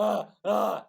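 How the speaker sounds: loud, high barked grunts; exaggerated fake moan in two bursts; mock orgasm noises. Guest teases the host about the clip, mock orgasm noises. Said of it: "filming myself doing orgasm noises".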